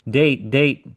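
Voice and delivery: hammed-up impatient driver; mock insistent driver. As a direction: parrot his pushy repeated demand. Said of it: "He's like".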